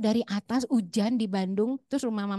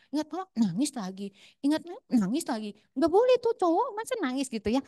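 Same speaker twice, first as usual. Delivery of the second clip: scolding mock disapproval; 4 semitones higher than usual. Voicing cultural scolding of men.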